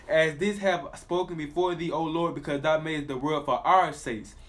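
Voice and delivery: slow, solemn reading; scripture reading. Acted. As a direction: read it out slowly like a preacher. Reads scripture aloud.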